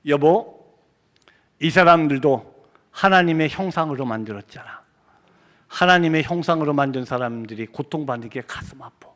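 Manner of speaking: low, subdued voice of a pained wife. Retold or imitated. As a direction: answer gently, pitch dropped, with pauses. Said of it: "딱 한마디만 하더라고요".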